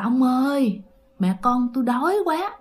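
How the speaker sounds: put-on a touch of broken ethnic minority accented Vietnamese, hungry plea. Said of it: "kiểu tiếng Việt lơ lớ của mấy người dân tộc".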